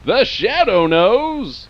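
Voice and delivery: slow, sinister radio tagline; ominous Shadow voice. Acted. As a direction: draw it out menacingly. Spooky radio serial tagline.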